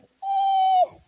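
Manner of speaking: mock-dismissive shrug. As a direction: shrug the idea off. Brushing off God's prompting.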